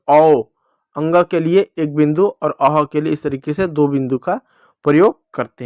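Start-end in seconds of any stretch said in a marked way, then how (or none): 0.1-0.4 louder emphatic औ; loud vowel demo. Shown as a demonstration. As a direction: call out औ clearly. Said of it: "किस रूप में?". (ज़ोर से औ)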